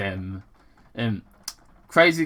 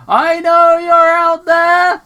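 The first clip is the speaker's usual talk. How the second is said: high, loud and slow, a crazed yell into the dark; drawn-out mock shout into the trees; 10 dB louder, slower than usual. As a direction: yell it out like a paranoid hermit. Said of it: "Crazy Carl shouted".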